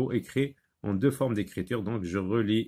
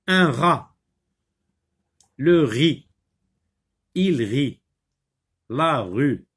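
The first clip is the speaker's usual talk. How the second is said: each word separate, with a falling tune; reading a word list; 4 dB louder, much slower than usual. Shown as a demonstration. Teacher reads one-syllable words to pupils, separately and clearly. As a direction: model each word clearly, pausing after it. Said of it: "Je lis des mots d'une syllabe".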